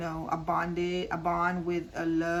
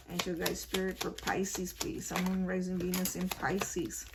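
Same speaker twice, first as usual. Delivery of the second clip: quiet invocation; 4 dB quieter than usual. Real, not acted. Invokes spirits before drawing cards.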